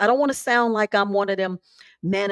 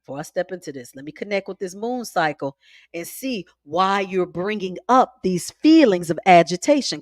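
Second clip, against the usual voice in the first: calm self-check; 2 semitones lower than usual. Shown as a demonstration. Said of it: "take a deep breath and say".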